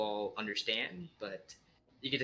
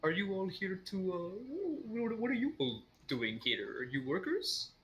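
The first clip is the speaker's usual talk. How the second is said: unhinged creature voice; 8 semitones higher than usual. Acted. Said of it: "this one seems a little unhinged".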